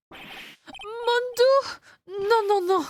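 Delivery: panicked shriek. Acted. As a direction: recoil in horror from the scooter. Man recoils from scooter in panic.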